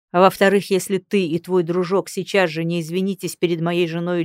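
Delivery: loud, commanding, cold threat; menacing threat. Acted. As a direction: threaten them from above. Lord threatens the men. (угрожающе)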